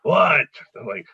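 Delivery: mock a curt, grouchy manager; imitating a grumpy old boss. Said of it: "it's like Louis from Taxi".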